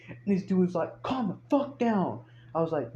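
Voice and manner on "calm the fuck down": high, drawn-out plea to settle down; exasperated retort. Retold or imitated. Tow driver answering the yelling owner, exasperated retort. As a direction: imitate an exasperated driver, pitched up and slow.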